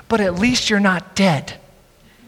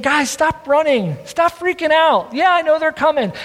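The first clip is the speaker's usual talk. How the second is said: exasperated Moses; 4 semitones higher than usual. Acted. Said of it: "where he's saying".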